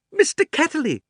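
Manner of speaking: high, loud shout of recognition. Acted. Girl suddenly remembers, shouting the name. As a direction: call the name out all at once. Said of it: "she shouted out".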